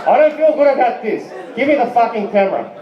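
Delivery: high, urgent complaint easing into a quick order; agitated protest. Retold or imitated. Acted protest to his bandmate.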